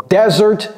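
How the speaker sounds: "desert" slowly, stressed on first syllable; desert pronunciation. Shown as a demonstration. Teacher names the dry landscape, careful model. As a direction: say "desert" as DEZ-ert. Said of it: "c'est pas desert".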